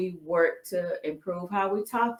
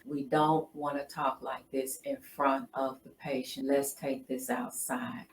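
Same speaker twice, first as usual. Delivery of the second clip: softer, lower, settled retelling; lightly imitating a husband calming a heated room; a hint of a husband quietly de-escalating with nurses; 4 semitones lower, 5 dB quieter than usual. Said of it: "And he said in a real calm voice".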